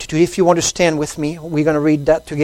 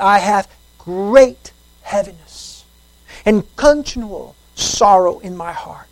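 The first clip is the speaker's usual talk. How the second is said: slow, weighty Bible reading; slow solemn reading of Romans; solemn scripture reading. Acted. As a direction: read the verse with gravity. Rereads verse slowly.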